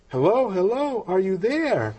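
high, singled-out retold hello; insistent checking. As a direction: call down the line to rouse someone. Caller repeats, trying to rouse listener.

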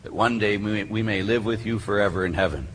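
low, even prayer on a narrow tone; opening prayer. Real, not acted. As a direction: lead the room steadily in prayer.

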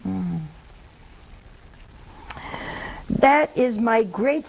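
slow, measured quotation; solemn lament. Acted. Nun reading Jesus's sorrow over sinners, slow solemn lament. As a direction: draw out the sorrowful words.

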